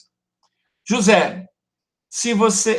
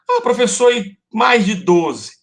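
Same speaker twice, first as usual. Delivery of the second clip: higher-pitched mock student piping up; student's question; 6 semitones higher, 4 dB louder than usual. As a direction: imitate a pupil asking the teacher, pitched up.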